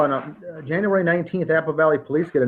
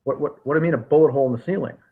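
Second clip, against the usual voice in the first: mock disbelief; faster than usual. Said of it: "Officers say".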